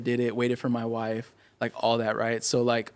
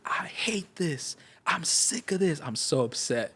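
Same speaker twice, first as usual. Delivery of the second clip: retold crying; 3 semitones higher, 7 dB quieter, slower than usual. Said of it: "like, crying".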